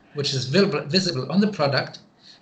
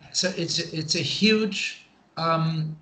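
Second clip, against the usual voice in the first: searching for the word; slower than usual. Real, not acted. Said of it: "how do you say this in English?".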